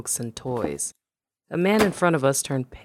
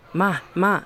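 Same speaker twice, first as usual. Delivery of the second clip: frenzied shout; 5 semitones higher, 4 dB louder than usual. A narrator's reading. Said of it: "I shouted in a frenzy".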